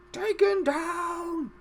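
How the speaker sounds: very high, drawn-out cry; film quote voice. Acted. Commentator quoting Lord of the Rings, high drawn-out cry. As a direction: stretch it into a long, high put-on call. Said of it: "as they would say in Lord of the Rings".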